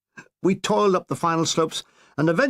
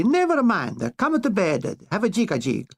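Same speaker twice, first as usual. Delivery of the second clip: coaxing mistress; 3 semitones higher than usual. Acted. Petacci voiced in sketch.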